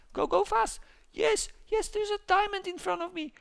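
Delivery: high excited cheering on; excited urging. Real, not acted. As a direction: egg yourself on in a squeak. Urging his character, finds diamond.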